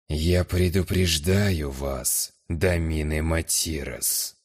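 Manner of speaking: slow, menacing low warning; low menacing growl. Acted. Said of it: "угрожающе низким голосом прорычал".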